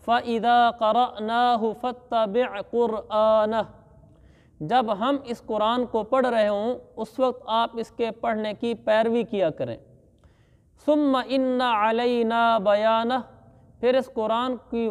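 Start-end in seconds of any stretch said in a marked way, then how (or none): 0.1-3.7 slow recited verse; Quran recitation. Acted. Teacher quoting the verse to students, slow chant. 10.9-13.2 slow recited verse; Quran recitation. Acted. Teacher quoting the verse to students, slow chant.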